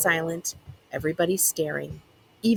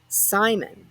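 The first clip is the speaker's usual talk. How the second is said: melting sympathy; 2 semitones higher than usual. Acted. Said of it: "sounding like she's about to melt into a puddle of sympathy".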